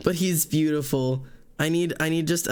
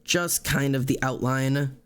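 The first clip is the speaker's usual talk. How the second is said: ordinary talk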